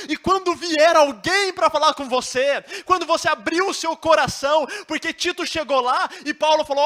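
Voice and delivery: fiery sermon delivery; full-force preaching. Acted. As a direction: preach it out to the whole church.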